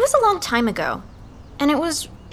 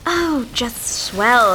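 sarcastic; much slower than usual. Acted. Sarcastic reply while digging through junk.

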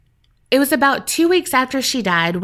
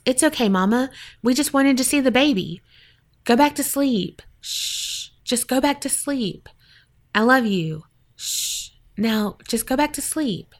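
soft, higher shushing lullaby tone; soothing hush; 3 semitones higher, 3 dB quieter than usual. Retold or imitated. Dead mother-in-law soothing the dreamer at night, softly hushing. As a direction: gently hush her back to sleep. Ghost soothing her back to sleep.

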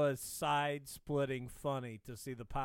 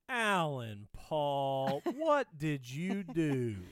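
slow, drawn-out call with a laugh; dismayed call; 4 dB louder, much slower than usual. Retold or imitated. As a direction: stretch the name out in half-laughing disbelief. Mother finds toilet stuffed with paper.

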